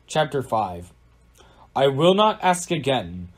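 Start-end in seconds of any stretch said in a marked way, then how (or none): 1.7-3.3 mild snarl, raised then slowing on the threat; threatening storybook villain, lightly snarled. A narrator's reading. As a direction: snarl a louder, menacing ultimatum. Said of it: "snarled the stranger again".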